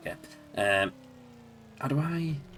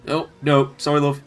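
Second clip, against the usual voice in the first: put-on Yorkshire accent; 6 semitones higher, 9 dB louder than usual. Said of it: "tried to put on a Yorkshire accent".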